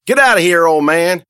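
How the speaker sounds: loud, sharp shout at the crow; angry snap. Acted. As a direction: snap it out angrily. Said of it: "I snapped".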